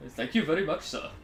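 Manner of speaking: light mock Indian accent, thank-you phrase; a brief playful stab at a typical Indian accent. Streamer jokes to chat, in a mild mock Indian accent. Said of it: "the typical Indian accent".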